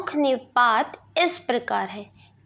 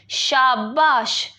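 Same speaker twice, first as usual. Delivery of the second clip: praising. Shown as a demonstration. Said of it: "किसी को शाबाशी दे रहे".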